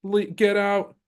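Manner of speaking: high exasperated mock voice; mock outrage. Locals telling America to leave, high exasperated voice. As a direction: shoo them away, indignant. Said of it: "They're like".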